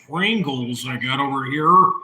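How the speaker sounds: talking while chewing chips; mouth full. Real, not acted. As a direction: speak through a mouthful of Pringles. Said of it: "I'm just eating some of these Pringles".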